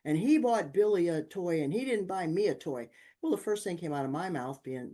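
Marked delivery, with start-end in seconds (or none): 0.0-2.9 high, loud whiny complaint; mad kid complaining. Retold or imitated. Son complaining to his mother about the toy, whiny and loud. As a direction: sulk like a wronged boy. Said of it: "oh, he was mad".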